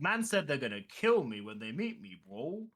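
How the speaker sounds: put-on light London roadman accent. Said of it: "I'm doing the roadman voice".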